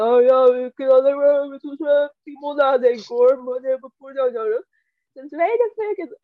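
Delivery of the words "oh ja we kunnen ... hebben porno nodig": sneering mock macho voice; mocking dumb guy. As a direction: parody a dumb bloke. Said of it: "Zo van". (spottend nagedaan)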